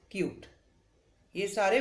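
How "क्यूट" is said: क्यूट with a long you sound; long u in cute. Shown as a demonstration. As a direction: draw out the yoo in क्यूट. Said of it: "long sound है". (लंबी ध्वनि में क्यूट)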